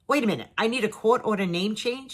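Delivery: retold double-take, querying the lawyer's words; disbelieving question. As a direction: repeat it back as a baffled question.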